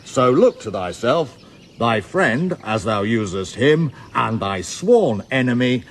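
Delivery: mock pompous reading. Reading Andrew's challenge aloud.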